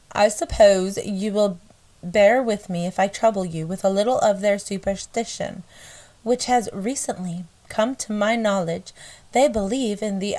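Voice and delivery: put-on measured reading in a light country accent. Reading a missionary's letter home, lightly put-on country accent. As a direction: read the old letter in a country twang. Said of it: "I can only do country".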